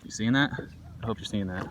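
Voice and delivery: talking round a phone in the mouth; phone held in teeth. Real, not acted. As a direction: speak through clenched teeth on a phone. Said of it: "with the phone in my mouth".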